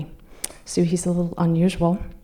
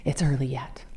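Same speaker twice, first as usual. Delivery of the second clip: whisper; 4 semitones lower, 5 dB quieter than usual. Retold or imitated. Hushing her friend.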